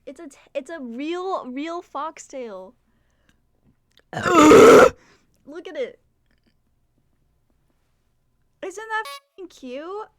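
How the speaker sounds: high, slow, cooing over the tail; cutesy gushing. Real, not acted. Streamer showing the tail to chat, cooing high and slow. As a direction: coo over it like a cute pet.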